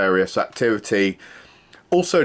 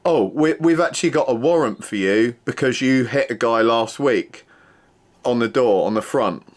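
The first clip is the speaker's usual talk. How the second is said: smug officer lightly imitated, a bit higher; mocking the officer; 3 semitones higher than usual. Officer telling the doorman about a warrant, light smug mimicry. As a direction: play her pleased announcement of the warrant. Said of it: "patronising lady police officer".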